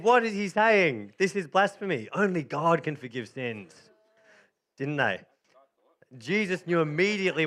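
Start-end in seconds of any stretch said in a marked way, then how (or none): 0.0-3.7 mock outraged Pharisees. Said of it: "they said".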